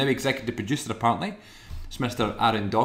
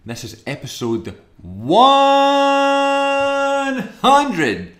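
higher, louder showman announcement; announcer intro; 4 semitones higher, 5 dB louder, slower than usual. Acted. Host opening the hundredth episode for listeners, grand announcer. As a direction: hype up the big episode like a compère.

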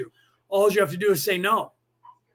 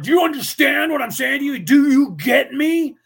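louder, higher angry challenge; angry demand; 6 semitones higher, 5 dB louder than usual. Retold or imitated. Boss angrily demanding to a subordinate, shouting. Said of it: "when people are angry with you".

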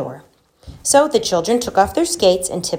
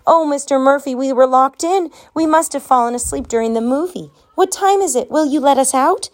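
put-on excited kids; 7 semitones higher than usual. Relieved kids clinging to janitor.

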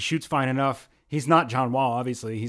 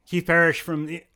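hoarse, voice giving out; losing his voice, rough and strained; 3 semitones higher than usual. Real, not acted. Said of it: "I'm losing my voice".

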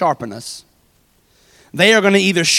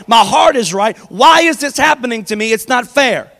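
loud, pleading protest at God; a believer ranting at God over unfairness; desperate complaint; 4 dB louder than usual. Retold or imitated.

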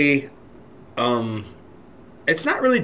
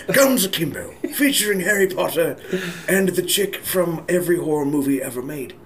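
slightly higher nature documentary narrator; David Attenborough voice; 4 semitones higher than usual. Retold or imitated. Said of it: "Now this is David Attenborough".

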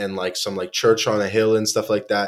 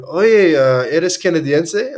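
lightly voiced local guy, higher and louder; horse guide; 7 semitones higher, 5 dB louder, slower than usual. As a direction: call it out like the friendly horse guide. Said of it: "and he's like, he's like".

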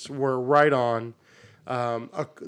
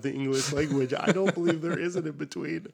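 mock formal. Mock formal pronouncement with laugh.

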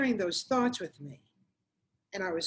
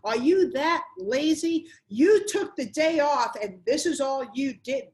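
mock furious yell, higher and louder; imitating a yelling husband; 4 semitones higher, 5 dB louder than usual. Wife imitates husband yelling about no dinner, furious. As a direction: bark it like an angry husband, raised pitch. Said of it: "he started yelling at me".

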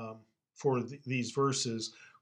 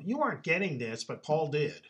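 whining, a touch higher; whiny voice; 3 semitones higher than usual. Retold or imitated. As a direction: whine it like a jealous rival. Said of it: "you almost have to say this in a whiny voice".

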